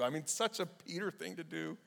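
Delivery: ordinary talk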